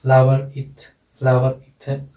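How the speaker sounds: फ्लावर इट with R joining the two words; linking R sounded. Shown as a demonstration. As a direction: sound the R of फ्लावर before the vowel of इट. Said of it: "रे का उच्चारण होगा".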